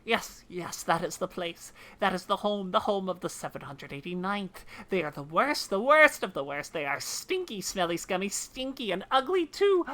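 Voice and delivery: lightly put-on character voice, rising at the end; lightly voiced game character. Character telling of the smelly band at the cliff base, disgusted.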